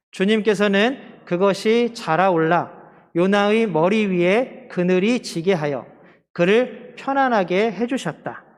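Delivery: slow, measured reading aloud; scripture reading. Acted. Preacher reads the gourd verse with the congregation, slow measured recitation. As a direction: lead a congregation reading in unison, phrase by phrase.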